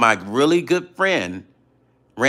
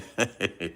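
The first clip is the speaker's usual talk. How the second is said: chuckle; 11 dB quieter than usual. Real, not acted. Answering a viewer about a singer, quiet chuckle. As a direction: chuckle softly to yourself.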